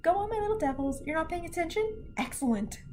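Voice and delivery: lightly voiced gleeful evil teacher; cheerfully wicked encouragement. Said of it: "happy to be evil".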